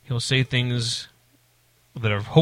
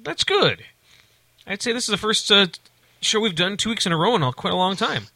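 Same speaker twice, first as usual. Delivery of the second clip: pitched way up, playful; high silly voice; 7 semitones higher than usual. Acted. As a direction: squeak it out in a high goofy voice. High silly voice after recap.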